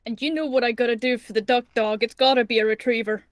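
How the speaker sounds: talking through a sandwich; words around a mouthful of food; chewing while talking. Real, not acted. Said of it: "sorry if you guys can hear me eating".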